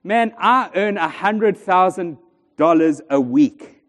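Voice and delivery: slow, laid-back delivery; acted nonchalance, taking your time; calm. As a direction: say it unbothered, like someone lounging against a palm tree. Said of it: "And the other guy's calmly le-, leaning".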